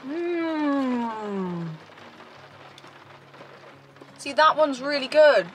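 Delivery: talking while chewing; mouth full. Real, not acted. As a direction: food in cheek. Seen 0: Bites bun at -3s, chews with closed, full mouth while murmuring.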